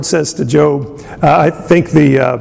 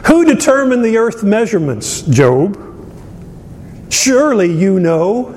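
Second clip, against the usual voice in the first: a touch of mocking sarcasm, pitched up on where; sarcastic; 4 semitones higher than usual. The Lord quizzing Job, lightly sarcastic. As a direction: needle him lightly with each question. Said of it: "there's a lot of sarcasm here".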